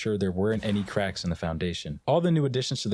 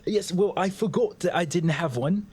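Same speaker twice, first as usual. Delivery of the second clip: put-on boss with an accent; 8 semitones higher than usual. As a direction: greet him like a grand boss. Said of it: "why do you have an accent?".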